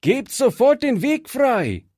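hoch und laut rufen; energischer Ruf. Acted. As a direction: fordere laut und hoch freien Weg. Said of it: "rief Fritz". (Fritz ruft die Banditen laut an)

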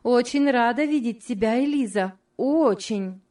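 friendly, cheerful lilt; cordial welcome. A narrator's reading. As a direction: welcome her like a long-awaited friend. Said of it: "как будто та была старым, давно ожидаемым другом".

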